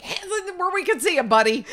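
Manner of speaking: loud high shouted command; shouting. Retold or imitated. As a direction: yell it like a cop. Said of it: "scream out something like".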